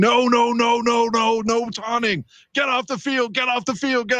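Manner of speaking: piercing, very high-pitched, shrill screaming. Retelling a reaction at a football game: imitating own screaming. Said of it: "I started screaming".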